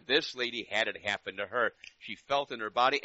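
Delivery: loud, urgent telling; full-force pulpit telling; fervent preaching. Real, not acted. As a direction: drive the story home loudly.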